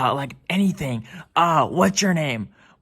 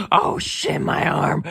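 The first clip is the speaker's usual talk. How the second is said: high squeaky whine; a toy crying out in a tiny high voice; squeaky pained voice; 8 semitones higher, slower than usual. Acted. Kid voicing hurt toy character.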